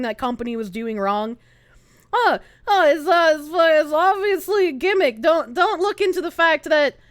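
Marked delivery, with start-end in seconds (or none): 2.1-7.0 mocking whiny voice. Streamer mocking defenders of the company, sarcastic whine. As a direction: parrot their excuse in a silly voice. Mocks the "obviously a gimmick" crowd.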